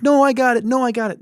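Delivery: hammed-up polite protest, pitched high; friends insisting. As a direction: imitate friends fighting for the bill. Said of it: "my friends might be like".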